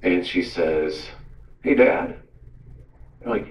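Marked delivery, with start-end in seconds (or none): 1.6-2.2 lightly voiced daughter, higher pitch; a hint of a child calling Dad; Julia. Daughter calls from the back seat, lightly imitated higher voice. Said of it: "I hear Julia's voice in the back seat".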